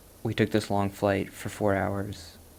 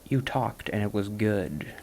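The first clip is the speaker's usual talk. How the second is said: slow, reassuring; slower than usual. Shown as a demonstration. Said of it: "note that".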